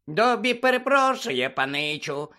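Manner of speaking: high, drawn-out squeaky elf voice; frightened squeak. A narrator's reading. House-elf to Harry after startling him, frightened squeak. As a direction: apologize in a scared high-pitched squeal. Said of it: "злякано запищав Добі".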